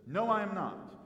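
acted firm, punched denial; emphatic denial. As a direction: deny it point-blank, in mild re-enactment. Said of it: "it's emphatic".

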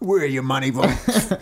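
slow, drawn-out mock repeat of the giant; mock giant echo. Listener slowly echoes the giant's demand in mock. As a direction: drag out "Where are your money vaults?" slowly, teasing. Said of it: "listener repeats mockingly".

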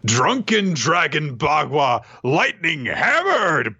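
hammy move-name announcement; attack-name call. Acted.

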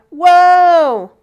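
high, loud dazed whoa; high-pitched spaced-out whoa; stoned excitement. Retold or imitated. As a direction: sound blissfully clueless and ready to go. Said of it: "everyone was just kinda like".

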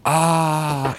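deadpan awe sound; emotionless gasp. Retold or imitated. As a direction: gasp with no feeling. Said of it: "She can't exclaim".

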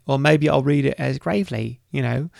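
badly faked character voice; Gravely. Shown as a demonstration. Host jokingly offering to read reviews as a character, botched impression. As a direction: put on a rough attempt at someone else's voice. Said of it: "that was, uh, not Gravely's voice".

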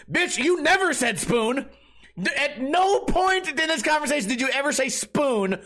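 high, heated disbelief; indignant rant. Real, not acted. Comic ranting at the rude customer, high and indignant. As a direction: tear into her like she's in the room.

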